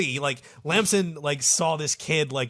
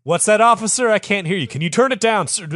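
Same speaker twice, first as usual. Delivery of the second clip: high-pitched, loud yell; shouting over music; 8 semitones higher, 11 dB louder, faster than usual. Acted. Farouk to the officer over blaring music, shouting. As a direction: yell as if you can't hear.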